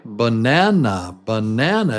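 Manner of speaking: "Banana" with a lengthened NAN; buh-NAAN-uh for "banana"; longer stressed vowel. Shown as a demonstration. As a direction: hold the middle of "banana", hurry the ends. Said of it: "the stressed vowel is little longer".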